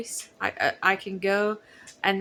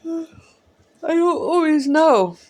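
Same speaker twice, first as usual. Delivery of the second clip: loud cry; 11 semitones higher, 9 dB louder than usual. Real, not acted. Emotional repeat of phrase.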